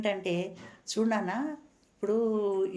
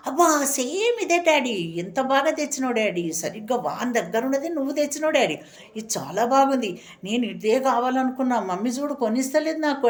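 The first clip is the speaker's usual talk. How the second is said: put-on a child's thrilled, louder thanks to his daddy; excited child; 3 semitones higher, 3 dB louder than usual. Little boy thanking his daddy for the toy, excited. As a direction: gush over the new toy car.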